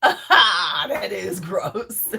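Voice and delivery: drawn-out laugh into the words; laughing reaction. Real, not acted. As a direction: react while really laughing. Laughs at viewer's comment.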